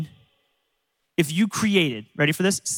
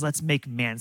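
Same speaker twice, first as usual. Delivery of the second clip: soft repeat; 8 semitones lower, 7 dB quieter than usual. Acted. God's words repeated more softly.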